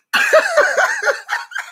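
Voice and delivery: a high, delighted burst of laughter. Real, not acted. Laughing at her own kick-ass joke, a high burst of laughter.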